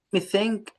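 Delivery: ثانك with tongue between teeth, high. Shown as a demonstration. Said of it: "طلع لسانك في التي اتش".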